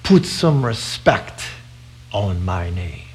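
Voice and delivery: put-on slow, low Nigerian accent; slow, low West African accent, words drawn out. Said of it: "he said in his African accent".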